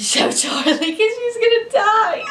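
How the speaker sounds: giggling through the words; laughing. Real, not acted. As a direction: laugh while you say it. Laughs while joking about sister.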